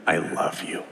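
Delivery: hushed whisper, fading out. Retold or imitated. Father whispering to his son in the foyer, hushed. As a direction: breathe it into his ear. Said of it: "I'm whispering death threats into his ear".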